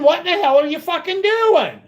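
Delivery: mock screaming heckler; retold scream. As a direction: imitate her screaming mid-bonus. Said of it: "she's screaming".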